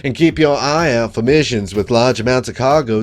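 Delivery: southern twang. Acted. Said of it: "sweet southern, southern twang to his voice".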